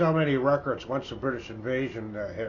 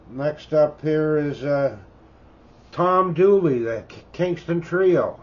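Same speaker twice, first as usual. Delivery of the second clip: excited announcement; 2 semitones higher, 5 dB louder than usual. Real, not acted. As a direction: call out the title proudly like a DJ. Announcing the next record loudly.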